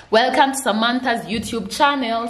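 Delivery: teaching the line; prompting line. Shown as a demonstration. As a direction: say the intro for the kid to copy. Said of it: "Haya, tunasema".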